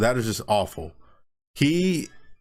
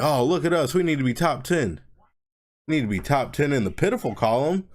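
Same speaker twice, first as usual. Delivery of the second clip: higher-pitched mock boasting; mocking fans; 5 semitones higher than usual. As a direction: lightly imitate gloating rival fans. Mocking rival fans' boasting.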